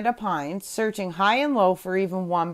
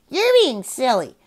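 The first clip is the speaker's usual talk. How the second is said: mock growl; 4 semitones higher, 3 dB louder than usual. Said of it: "Then the parrot growled".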